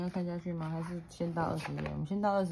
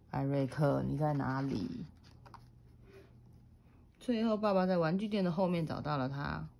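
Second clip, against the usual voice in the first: put-on reading to a toddler. A narrator's reading. Mother reads picture book aloud.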